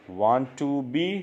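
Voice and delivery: "want to be" stretched very slowly; drawn-out full form. Shown as a demonstration. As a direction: spell out each word of "want to be". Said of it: "want to be को बोलेंगे wanna be".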